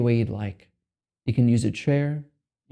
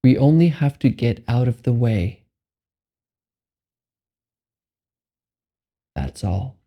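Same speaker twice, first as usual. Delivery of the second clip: guided meditation; 4 dB louder than usual. Acted. Meditation guide giving listeners permission to be here, measured and spacious. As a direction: guide them unhurriedly into letting go.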